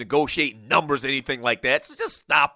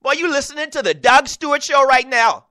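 Geechee accent; 8 semitones higher, 4 dB louder than usual. Shown as a demonstration. Host shows listeners the Geechee accent on his own station ID. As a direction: show plug in a thick Geechee accent, higher and louder. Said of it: "the Geechee accent is kinda like".

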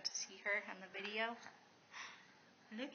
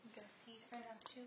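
fast breathy whisper; 13 dB quieter, faster than usual. Real, not acted. Parent whispers to toddler feeding her doll. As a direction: whisper so you don't break her focus. Quiet aside while child plays.

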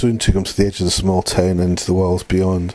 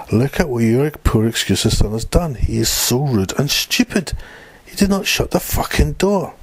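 high-pitched outburst at usual volume; angry scream; 6 semitones higher than usual. A narrator's reading. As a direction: rant with the pitch climbing sharply to the end. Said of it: "screamed at Alicia".

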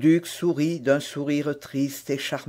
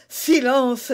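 hushing; 9 semitones higher, 6 dB louder than usual. A narrator's reading. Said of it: "dit le duc".

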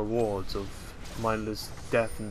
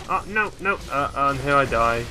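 dismayed; 3 semitones higher, 6 dB louder than usual. Real, not acted. Dying in game.

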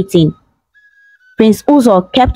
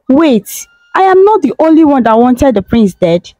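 higher, puzzled question; confused; 4 semitones higher than usual. Acted. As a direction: ask it baffled. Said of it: "she asked confusedly".

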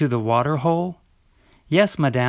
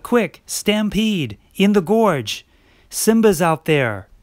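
high, urgent warning cry; urgent alarm; 5 semitones higher than usual. Acted. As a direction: raise the alarm, breathless. Alarm about the stampede.

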